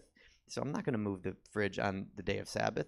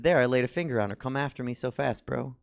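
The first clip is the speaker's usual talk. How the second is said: taunting; 3 semitones higher, 6 dB louder than usual. Retold or imitated. Taunting the big guy.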